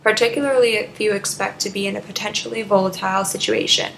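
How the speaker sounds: measured radio announcement read; public service read. Acted. Radio host advising listeners on phone rights, public service read. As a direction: read it out evenly, like a prepared station message.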